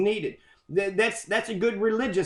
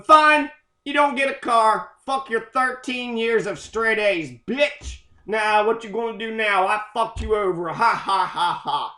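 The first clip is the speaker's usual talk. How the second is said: gloating parent. Retold or imitated. Parent reneging, mocking.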